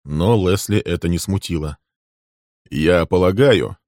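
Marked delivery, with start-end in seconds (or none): 2.7-3.8 slow, deliberate opening; a man weighing his words, slowly. Acted. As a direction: take your time over it. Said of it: "продолжал он медленно".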